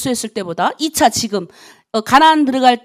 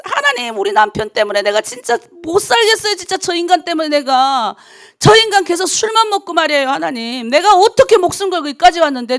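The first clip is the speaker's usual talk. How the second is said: complaining to God; 3 semitones higher, 3 dB louder than usual. Retold or imitated. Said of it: "하나님 앞에 고백했어".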